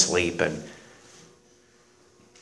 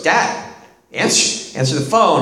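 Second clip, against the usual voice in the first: urging son; 5 semitones higher than usual. Retold or imitated. Son urges father in car.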